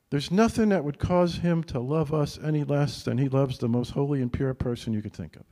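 usual speaking voice

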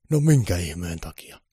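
mildly indignant Santa; exasperated. A narrator's reading. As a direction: ask it in grumpy disbelief. Santa questions the new lock.

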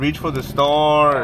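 mock inspirational. Mock inspirational, slow loud.

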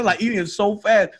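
normal talking voice

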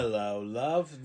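put-on slow British-style accent greeting. Host comparing Australian and British, put-on accent. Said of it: "There's a difference between Australian and".

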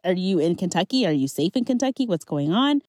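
high, rushed worried questions; frantic friends. Retold or imitated. Friends who watched the live, panicked and high. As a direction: imitate panicked friends checking in. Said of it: "They're like".

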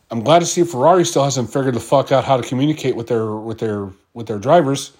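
fast, dry sarcastic praise. Real, not acted. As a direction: say it like you mean the opposite. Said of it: "I say that sarcastically".

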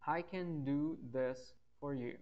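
slow, careful English example; slow model sentence. Shown as a demonstration. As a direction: lay out each word slowly. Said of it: "Um outro exemplo com for".

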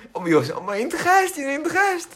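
put-on child pleading with mum about the burial, frantic. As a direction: beg mum in a frantic, rising voice.

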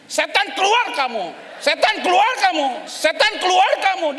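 shouted rebuke of a demon, repeated; mock yelling exorcism. Shown as a demonstration. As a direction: yell it at the demon to show what not to do. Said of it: "jangan teriak juga sama dia". (teriakan mengusir setan, pura-pura)

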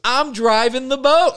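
very high, loud squeal through laughter; slow, squealing punchline; shrieking disbelief. Retold or imitated. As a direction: squeal the reveal while laughing. Climax of retold story.

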